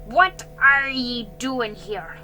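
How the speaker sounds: loud, slow, menacing growl; growled challenge. A narrator's reading. Jiggy turning on Ben, growling. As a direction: growl it at an intruder.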